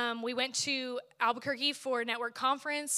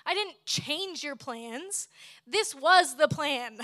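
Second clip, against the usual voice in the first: slow, calm, reassuring words; God gently correcting a worried daughter, slow and calm; gentle voice of God; 3 semitones higher, slower than usual. Retold or imitated. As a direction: speak slowly as a patient, loving God. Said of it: "listening to him say".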